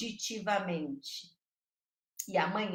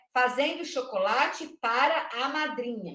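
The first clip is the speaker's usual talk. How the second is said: "Fazendo chocolate para a madrinha" with words set apart. Shown as a demonstration. Teacher counting nine words, "Fazendo chocolate para a madrinha" word by word. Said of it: "eu tenho nove palavras".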